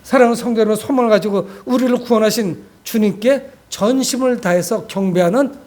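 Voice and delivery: ordinary talk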